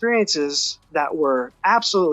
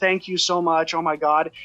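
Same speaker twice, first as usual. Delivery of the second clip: put-on crying out. Retelling a moment of sudden relief, imitating crying out. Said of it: "I'm just crying out".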